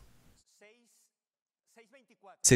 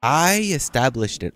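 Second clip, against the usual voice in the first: self-important stress on I, higher; imitating people of faith; 5 semitones higher, 3 dB louder than usual. Preacher mimicking people of faith who declare things, mock self-important. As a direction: mimic them proudly claiming the credit. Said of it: "I've heard people of faith say this".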